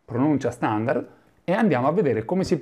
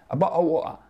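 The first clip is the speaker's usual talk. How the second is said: Londoner again; 4 semitones higher, faster than usual. Retold or imitated. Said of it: "la prima volta che io ascoltai".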